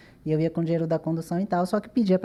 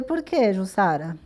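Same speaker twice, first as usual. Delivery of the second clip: angry retort; slower than usual. Retold or imitated. Retorting angrily to her dance teacher Jussara. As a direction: snap back at the teacher. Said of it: "Esse daí é meu lado bravo".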